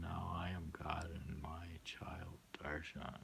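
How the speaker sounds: whispered closing line. Acted. Reader ending the memorial poem in a whisper. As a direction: let the last line fade to a whisper.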